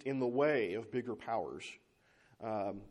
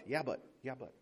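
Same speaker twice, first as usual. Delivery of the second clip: 1 mocking whiny objection; 5 dB quieter than usual. Mocking stubborn arguers.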